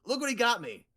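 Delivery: eager gator showing off a gift; Jerome. Acted. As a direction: gush loudly about your hero. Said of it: "And Jerome's gonna say".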